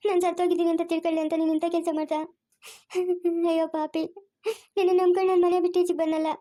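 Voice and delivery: crying. Acted. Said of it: "ಅಳ್ಬೇಡ, ಸುಮ್ನೆ ಇರು ಸಂಗೀತ".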